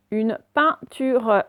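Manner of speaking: slow dictation with gaps between syllables; deliberate classroom word reading. Shown as a demonstration. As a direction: sound the word out slowly for pupils. Teacher sounds out exercise word.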